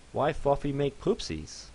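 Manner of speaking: a small pony asking, slow and confused; fluffy pony voice. Acted. Fluffy character voice.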